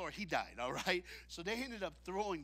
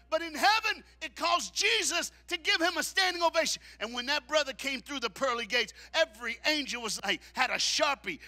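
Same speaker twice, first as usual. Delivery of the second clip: high, loud preacher build; full-force preaching; 9 semitones higher, 9 dB louder than usual. Acted. Preacher lifts the congregation, full force preaching. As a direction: preach it to the rafters.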